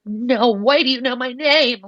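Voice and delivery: high, loud astonished outburst; starstruck freak-out. Retold or imitated. Musician learns her idol knows her name, starstruck freak-out. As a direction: blurt it out, overwhelmed that they know you. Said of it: "I could not handle it".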